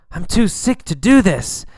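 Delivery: loud sick whine; loud protest. Acted. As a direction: push back hard at the nurse. Sick patient protests to nurse.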